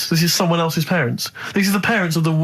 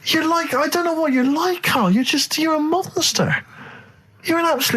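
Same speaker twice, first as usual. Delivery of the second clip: laughing outrage; 10 semitones higher than usual. Real, not acted. Mock outrage at Carl.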